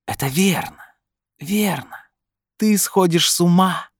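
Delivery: very high screechy voice, building in force; shrieking inner voice. A narrator's reading. Voice in his head taunts Brin, shrieking high. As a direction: squeal it from inside his head. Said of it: "взвизгнул у него в голове голос".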